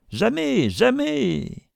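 very high, wailing protest; high-pitched, frantic outburst; desperate refusal. A narrator's reading. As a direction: cry it out in panic. Isaac refuses, being forced to pay.

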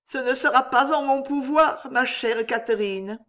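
high, subdued refusal; gently refusing, sorrowful; sad young woman. A narrator's reading. Éléonore voiced.

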